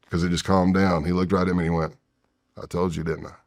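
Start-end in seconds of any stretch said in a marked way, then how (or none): 2.6-3.3 eerie calm. Retold or imitated. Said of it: "the room just got super calm".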